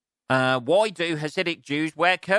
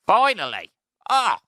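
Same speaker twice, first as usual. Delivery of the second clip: higher, louder, triumphant cheer; hammed-up victory shout; mock triumph; 8 semitones higher, 6 dB louder than usual. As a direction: celebrate like a great breakthrough. Exaggerated triumphant exclaim.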